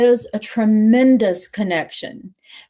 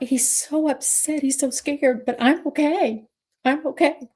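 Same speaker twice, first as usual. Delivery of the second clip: tearing up; 6 semitones higher than usual. Real, not acted. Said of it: "I can hardly talk about it without tearing up".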